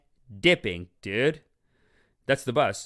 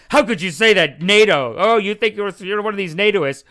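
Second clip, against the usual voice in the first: mock indignant friend; 6 semitones higher, 7 dB louder than usual. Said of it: "be like".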